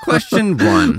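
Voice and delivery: high, laughing and loud; giggling through the words. Real, not acted. Cracking up over the name.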